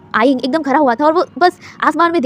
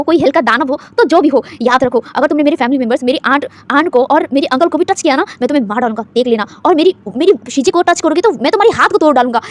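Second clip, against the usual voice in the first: angry threat; 4 dB louder than usual. Acted. Boy threatens to kill.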